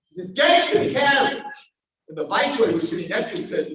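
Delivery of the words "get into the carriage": loud, higher command; firm order. Acted. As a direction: order her in firmly. King orders her in.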